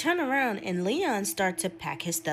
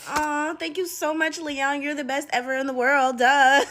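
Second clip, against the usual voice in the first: higher, gushy mock-grateful girlfriend; gushing thanks; 5 semitones higher, 3 dB louder than usual. Girlfriend thanking Leon for pastries, gushing. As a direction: lay the sweet gratitude on thick.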